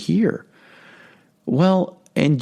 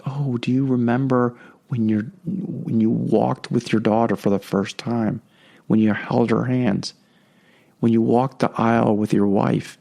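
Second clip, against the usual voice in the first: angelic voice; 3 semitones lower than usual. Retold or imitated. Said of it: "Angelic voices will use our memory and passion to inspire".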